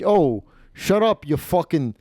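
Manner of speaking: lightly voiced Italian-American husband telling off his wife; mock Italian-American insult, drawn out at the start; Stefano. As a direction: imitate a brash Italian-American gambler. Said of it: "That's what he said".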